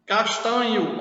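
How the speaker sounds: "Castanho" with the final o sounded as u. Shown as a demonstration. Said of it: "o Ozinho com som de U".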